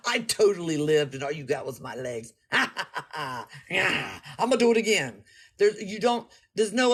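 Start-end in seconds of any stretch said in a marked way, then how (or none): 0.1-5.2 laughing quote. Retold or imitated. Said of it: "We're just like".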